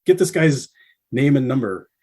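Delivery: mock Dean calling the tour manager over. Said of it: "he's like".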